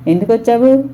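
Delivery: curt question with understated anger; angry. A narrator's reading. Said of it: "అంది కోపంగా".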